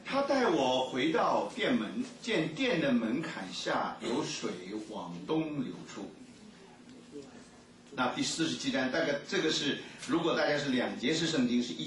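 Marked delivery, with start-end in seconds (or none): 0.1-6.1 slow, measured scripture reading. Acted. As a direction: read the verse out slowly and deliberately. Reads the scripture passage aloud. (缓慢庄重地朗读经文)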